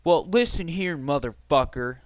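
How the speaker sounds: mock-furious brother laying into him; angry brother. Brother calling to complain about the podcast, mock angry voice. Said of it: "and is like this".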